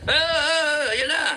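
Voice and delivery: high, panicky mock stammer. Mocking protesters who panic, mock panicked stammer. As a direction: mimic a flustered coward. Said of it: "hindi yung ganyan na".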